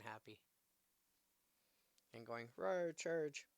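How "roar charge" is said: monster roar. Pretend. Dinosaur card roaring happily.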